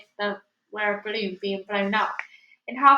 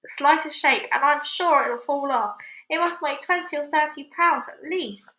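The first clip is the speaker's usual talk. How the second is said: high, louder alarmed warning; 5 semitones higher, 4 dB louder than usual. Acted. Aunt fearing the peach falls, louder alarmed warning. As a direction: warn with rising alarm.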